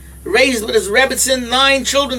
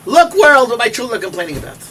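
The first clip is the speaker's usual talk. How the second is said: calling out; 2 semitones higher, 5 dB louder than usual. Retold or imitated. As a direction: call out to the whole world. Quoting a sage's cry.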